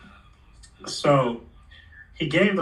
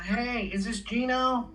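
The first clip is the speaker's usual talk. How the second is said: imitating Mark; 9 semitones higher, 5 dB quieter, slower than usual. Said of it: "he's like".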